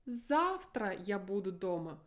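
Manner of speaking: Завтра stressed with a marked fall; emphasize Завтра as new information; emphasis on Завтра. Shown as a demonstration. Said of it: "So I have to really emphasize it".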